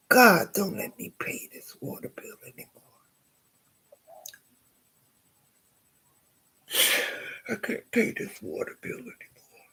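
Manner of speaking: pleading to God, mostly whispered; desperate prayer. Retold or imitated. Praying not to pay the water bill, whispered plea.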